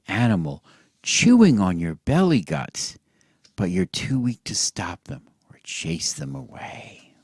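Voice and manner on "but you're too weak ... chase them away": soft, spooky whispered aside. Acted. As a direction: whisper it like a creepy secret. Gory story told to children.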